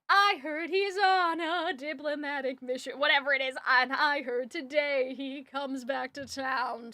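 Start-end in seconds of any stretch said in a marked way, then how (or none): 0.1-3.0 snarky theatrical. Retold or imitated. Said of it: "like, snarky almost". 3.7-6.9 snarky theatrical. Retold or imitated. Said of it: "like, snarky almost".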